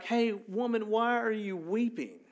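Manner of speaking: high-pitched, casual retelling of a question; mock tactless questioning. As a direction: ask it with mock cluelessness. Paraphrasing the angels' unhelpful question.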